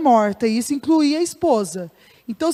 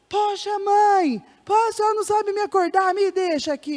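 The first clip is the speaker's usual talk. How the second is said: whiny son; 7 semitones higher than usual. Acted. Sleepy son whining at mother.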